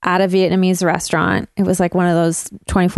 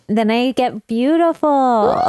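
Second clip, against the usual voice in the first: dreamy exclamation; 5 semitones higher than usual. Pretend. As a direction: proclaim it like a fairy tale. Silly potato fantasy.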